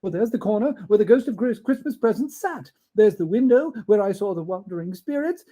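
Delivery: high and loud, marvelling; delighted Scrooge. Acted. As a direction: marvel at every corner.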